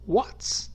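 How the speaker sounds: "What's" said as one short contracted word; contracted form. Shown as a demonstration. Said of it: "contracted form".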